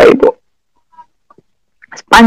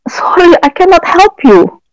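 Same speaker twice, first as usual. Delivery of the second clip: higher, tearful mock brush-off; a bule woman's curt no, pitched up through tears; imitating refusal; 6 semitones higher than usual. Foreign lady turning down a mother's plea, higher and tearful.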